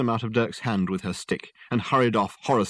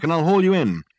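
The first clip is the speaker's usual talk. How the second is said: loud, raised-pitch rescue call; shouting; 8 semitones higher, 7 dB louder than usual. A narrator's reading. Detective hauling his client from the canal, shouting. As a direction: shout reassurance to someone in the water. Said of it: "shouted Dirk".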